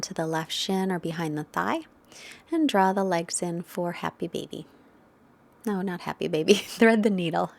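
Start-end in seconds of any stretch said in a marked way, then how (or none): 5.6-7.6 chuckling over your own slip; amused self-correction. Real, not acted. Yoga teacher fixing a pose name she mixed up, amused. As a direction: correct yourself with a laugh breaking in.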